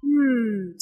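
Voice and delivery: drawn-out pondering "Hmm"; considering before answering; thinking pause. Acted. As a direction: hum while you think it over. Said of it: "Julia pauses for a moment".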